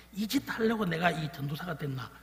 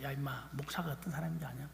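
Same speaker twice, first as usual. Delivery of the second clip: quiet retold father; 9 dB quieter than usual. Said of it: "늘 그렇게 이야기를 했습니다".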